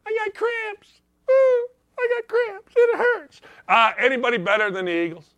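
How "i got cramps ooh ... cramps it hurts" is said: very high, fake crying whimper; hammed-up high cry; mock crying whine. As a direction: sob like a fake hurt star. Mocking cramping player.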